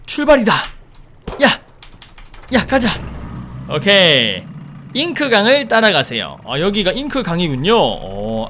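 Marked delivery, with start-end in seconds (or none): none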